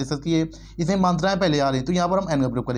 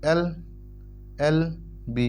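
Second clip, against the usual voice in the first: एलएलबी stretched very slowly; drawn-out sound; 4 dB quieter, much slower than usual. Shown as a demonstration. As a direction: draw out एलएलबी letter by letter. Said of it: "इसके बाद एलएलबी".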